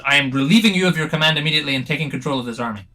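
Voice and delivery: loud, fast panicky decree; hasty seizing command. Acted. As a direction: rush out the takeover.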